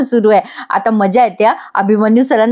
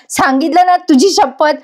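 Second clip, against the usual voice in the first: a mild snap, a bit higher; snapping at her; 5 semitones higher than usual. Acted. Abhimanyu sir snaps at Gauri before running off, mild snap. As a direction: snap back, lightly voiced. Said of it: "वसकतात तिच्यावर".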